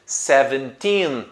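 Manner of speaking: put-on seventeen slowly, with a long "teen"; "seventeen" drawn out on teen; stress on TEEN. Shown as a demonstration. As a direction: lean on the last syllable of "seventeen". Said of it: "com o teen na sílaba mais forte".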